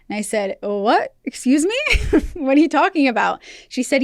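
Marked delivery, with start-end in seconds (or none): 0.6-1.8 a stunned, higher "Excuse me?"; shocked disbelief. Retold or imitated. Shocked reaction to mom's secret. 1.8-2.3 a short, very high burst of laughter; high startled laugh. Retold or imitated. Laugh within retold shock. 2.3-3.4 a stunned, higher "Excuse me?"; shocked disbelief. Retold or imitated. Shocked reaction to mom's secret.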